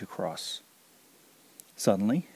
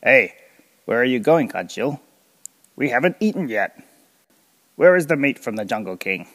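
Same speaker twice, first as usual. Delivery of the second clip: much louder, furious crocodile; angry shout; 3 semitones higher, 10 dB louder than usual. Acted. Mister Buaya shouting angrily at Kancil as he leaves, much louder. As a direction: bellow after the escaping deer. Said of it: "shouted angrily".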